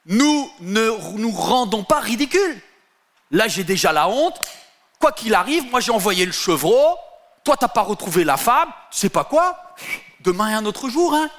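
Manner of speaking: Judas blustering high. Acted. Judas exclaims to his friend, high pompous bluster. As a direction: puff up to cover the shame, mildly hammed. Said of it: "Judas s'écria".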